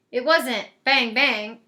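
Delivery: thud out bang like a gunfire; mock gunshot bang. Shown as a demonstration. Narrator sounding out the noise as bang, bang. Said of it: "It was more like bing".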